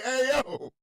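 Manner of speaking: hammed-up demanding kid; demanding granddaughter. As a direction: call out like a bossy toddler. Acting granddaughter calling her mom.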